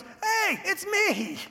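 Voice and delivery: the healed man begging the doubting neighbors to believe him; insistent protest. Retold or imitated. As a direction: wave your arms and insist it's really you. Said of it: "He goes".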